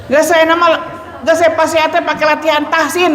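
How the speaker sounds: a hint of a scolded woman protesting; mock retort. Patient insisting it is only tahsin practice. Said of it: "kata saya teh bilang begitu".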